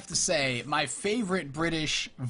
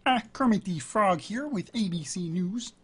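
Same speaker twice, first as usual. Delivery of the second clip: higher-pitched puppet frog newsreader; Kermit the Frog; 4 semitones higher than usual. Acted. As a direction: report the news as a chirpy puppet frog. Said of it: "the other one that I like".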